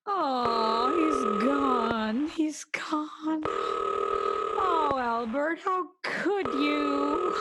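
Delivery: slow, aching reproach; anguished lament. Acted. Deserted wife lamenting to absent Albert, slow anguished reproach. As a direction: drag out the hurt. Husband left her alone.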